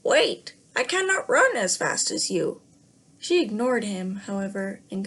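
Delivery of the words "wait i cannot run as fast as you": croaking frog call. Acted. Frog calls after the running princess, loud croaky. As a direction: call out anxiously. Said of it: "The frog croaked after her".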